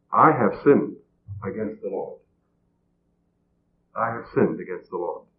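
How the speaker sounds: hushed, falling to a low murmur; understated, low and subdued admission of guilt; retold confession. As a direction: confess it softly, letting the voice sink. Quotes David's humble confession to Nathan.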